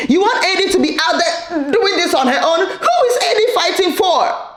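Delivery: high, laughing and incredulous; laughing disbelief. Real, not acted. Host questioning the mom, laughing in disbelief.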